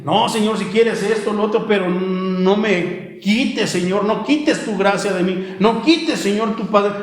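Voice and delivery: acted-out desperate supplication; pleading prayer. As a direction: beg God earnestly, as if reliving it. Acts out his own urgent prayer.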